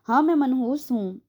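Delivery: a touch of tears, admitting it; wife tearfully owning the blame; crying confession. A narrator's reading. Wife admits she is cursed, mildly tearful. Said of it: "उसने रोते हुए एतराफ़ किया".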